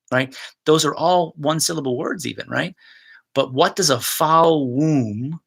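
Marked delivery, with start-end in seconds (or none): 3.3-5.4 slow savouring. Shown as a demonstration. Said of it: "teacher savours the phrase".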